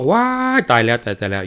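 loud startled cry; mother crying out after stepping on a broken bowl; yelp of pain. Acted. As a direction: shriek as the shard cuts her foot. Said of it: "เยศรีประจันก็ร้อง".

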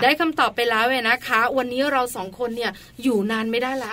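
muffled by a face mask; through a face mask. Real, not acted. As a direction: speak from behind a face mask. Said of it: "การพูดผ่านแมสเนี่ยนะคะเหนื่อย".

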